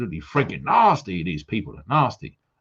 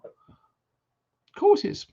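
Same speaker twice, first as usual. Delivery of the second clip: stretched-out mock retort; much slower than usual. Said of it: "drawn-out retort".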